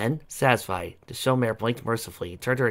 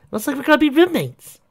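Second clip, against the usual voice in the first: high, gleeful announcement; delighted teasing lilt; excited; 8 dB louder than usual. A narrator's reading. Twilight voiced, happy news.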